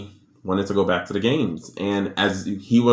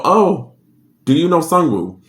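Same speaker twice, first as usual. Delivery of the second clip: higher, mock-polite question; mock official question; 7 semitones higher, 3 dB louder than usual. The feds asking the mom about her son, pitched higher and mock-polite. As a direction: lift it up sweetly like a cop.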